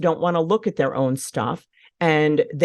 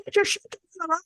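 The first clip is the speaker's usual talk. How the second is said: retold yell; 14 semitones higher, 5 dB quieter, faster than usual. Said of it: "I was yelling at my kids".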